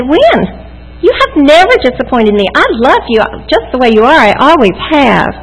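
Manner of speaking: high, astonished reassurance; retelling her own surprise to her daughter; surprised. Retold or imitated. Mother surprised by her daughter's confession, high astonished. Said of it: "I was so surprised".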